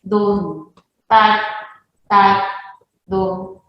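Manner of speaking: spaced, uneven dum and tac; irregular beat sounds. Shown as a demonstration. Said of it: "porque no es". (ritmo irregular imitado con la voz)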